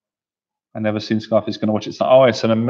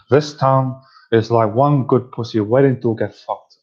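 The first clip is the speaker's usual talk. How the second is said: Scarface impression. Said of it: "let me say this line".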